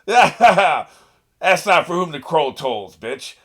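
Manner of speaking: loud, slow, laughing delivery; laughing hype. Real, not acted. Excited viewer cheering the crow ninja while laughing. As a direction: cheer it through laughter, dragging it out.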